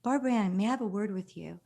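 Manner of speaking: lightly voiced proper British mom; a hint of a prim summons, quick at the end; Sharon Osbourne. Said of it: "British proper voice".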